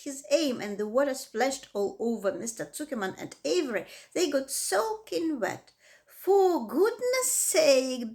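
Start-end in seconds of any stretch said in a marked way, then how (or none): 6.2-8.1 higher, louder, slow bellow. A narrator's reading. Drenched Zuckerman bellowing at Lovey, slow loud bellow. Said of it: "bellowed Mister Zuckerman".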